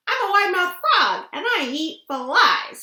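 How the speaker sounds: eager boasting frog. Acted. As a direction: rattle it off like a cocky frog.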